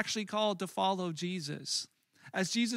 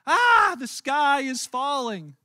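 high, loud squawk, then a slow wail; hammed-up panicking chicken; panicked Chicken Little; 5 semitones higher, 8 dB louder, slower than usual. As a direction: shriek it like a frantic little hen. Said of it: "what does she say".

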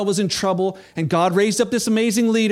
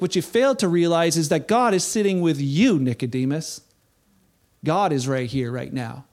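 gentle Jesus; 3 semitones lower than usual. Acted. Jesus voiced answering Nicodemus.

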